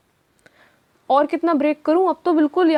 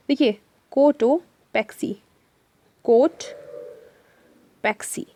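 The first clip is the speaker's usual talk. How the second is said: slow syllable break; much slower than usual. Shown as a demonstration. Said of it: "teacher breaks the word".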